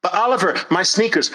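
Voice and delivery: high, pleading whine; mock protest, high and nasal; whiny excuse. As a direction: whine like a stalling child. Whiny objector.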